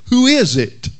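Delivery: high squawking parrot call. Retold or imitated. Parrot calling to the plumber, high squawk. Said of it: "called the parrot".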